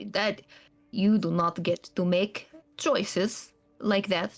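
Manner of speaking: a hint of a cold, bitter scholar; bitter NPC scolding his runaway charge; a hint of clipped anger at the runaway; stern NPC rebuke. GM voices NPC demanding.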